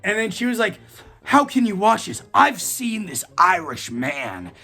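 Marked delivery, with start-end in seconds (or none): 1.2-4.5 slow, appalled school principal voice; scandalised principal. Retold or imitated. Principal lecturing the student, slow and appalled. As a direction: drag out each word like a shocked church lady. Principal scolding about the videos.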